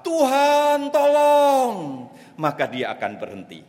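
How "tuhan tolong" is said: command word. Acted. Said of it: "Bapak cukup berkata".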